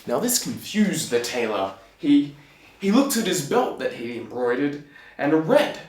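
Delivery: ordinary delivery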